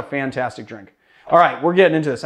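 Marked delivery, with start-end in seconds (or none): 0.0-0.9 a hint of a Chicago accent on "fantastic". Real, not acted. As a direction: say "fantastic" with a slight Chicago twang. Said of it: "said fantastic like I'm from Chicago".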